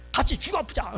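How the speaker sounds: high-pitched, hammed-up threat; mock angry threat. Jacob daring his wife in a quarrel, mock anger. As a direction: play the quarrel for laughs. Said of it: "막 이러는 거야".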